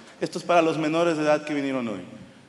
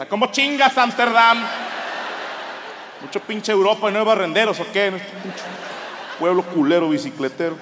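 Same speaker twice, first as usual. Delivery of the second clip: loud, higher outraged tirade; indignant rant; 4 semitones higher, 3 dB louder than usual. Retold or imitated. Tourist told off for his cigarette butt, ranting loudly. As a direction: blow up at the whole city.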